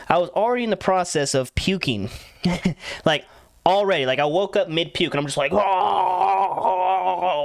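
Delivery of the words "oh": mock retching groan. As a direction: imitate heaving up a drawn-out groan. Waking up mid-puke, imitates himself.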